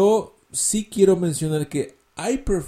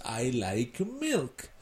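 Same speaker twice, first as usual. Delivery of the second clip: slow teaching demo; 2 semitones lower, 10 dB quieter, much slower than usual. Shown as a demonstration.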